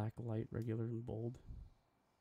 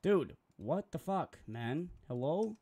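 loud, high, slow exasperated shout; really bellowing at the broken software; frustrated yell; 6 semitones higher, 7 dB louder, slower than usual. Real, not acted. Streamer yelling at Photoshop as the font breaks, loud and high.

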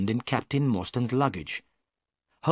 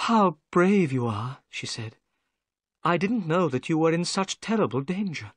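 a lightly voiced higher young woman; gentle young lady; 6 semitones higher than usual. Miss Morstan greets the narrator, lightly voiced higher and gentle. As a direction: lift the voice for a polite young lady.

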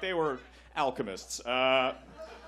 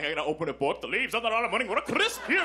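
mock poetic reading; 5 semitones higher than usual. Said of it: "read me my favorite passage".

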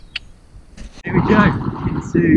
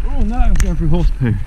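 surprised; 3 semitones higher, 10 dB louder than usual. Real, not acted. Riding into horse dung.

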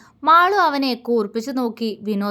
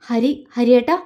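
shocked call; 3 dB louder than usual. Acted. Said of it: "ഞെട്ടലോടെ വിളിച്ചു".

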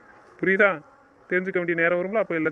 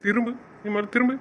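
firm, raised-pitch command to turn around; stern order; 4 semitones higher than usual. Acted. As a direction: order her to turn, not yet shouting. Husband ordering wife to turn. (கண்டிப்பான கட்டளை)

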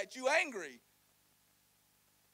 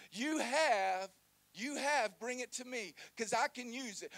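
Jesus voiced, urging; 3 semitones higher, 4 dB louder, slower than usual.

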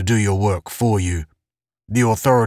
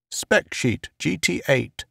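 whispered; 6 semitones higher, 5 dB quieter than usual. A narrator's reading. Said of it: "whispered something to the man".

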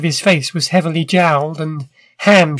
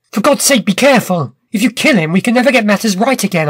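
a mild alarmed cry, quicker at the end; urgent plea; 3 semitones higher than usual. Acted. Malone begging Challenger to spare the inventor, urgently. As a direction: plead fast to stop the killing. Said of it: "I cried".

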